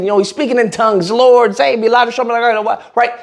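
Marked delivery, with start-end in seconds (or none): 1.1-2.3 hammed-up desperate prayer; mild mock cry to the Lord; mock screaming. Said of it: "he's just screaming".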